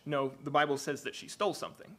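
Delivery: "stole" leaned on with a falling close; insisting the Bible says "stole"; stress on STOLE. Shown as a demonstration. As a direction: land hard on "stole" to insist. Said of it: "I'm trying to emphasize the word stolen".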